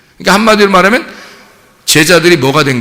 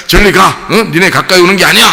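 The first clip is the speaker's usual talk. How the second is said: mock scolding, pitched up; bossy shooing; 4 semitones higher, 3 dB louder than usual. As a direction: imitate an officious disciple. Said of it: "막 나댈 때는 어땠어요?".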